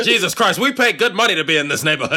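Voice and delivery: hammed-up old-movie grumbler, half laughing; old-time angry neighbor. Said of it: "People used to talk like that".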